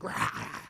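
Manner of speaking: unvoiced imitation of inner rage; acted-out growl of fury, held back; mock raging roar. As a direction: let out a restrained, raspless roar sound. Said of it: "it's just raging in my head".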